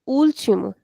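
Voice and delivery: "último" with the stress on its opening "úl"; stressed first syllable. Shown as a demonstration. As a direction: lean on the first syllable of "último", OOL-chee-mo. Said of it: "That is why I'm saying".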